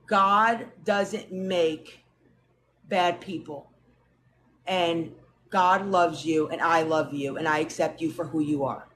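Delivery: low, slow and gentle; grandma in the bathroom comforting her granddaughter, tenderly. Retold or imitated. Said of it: "pulled me into the bathroom and said".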